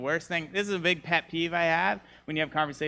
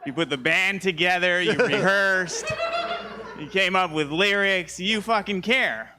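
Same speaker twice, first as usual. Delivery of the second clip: rant; 4 semitones higher, 4 dB louder than usual. Real, not acted. Ranting at a singer's song.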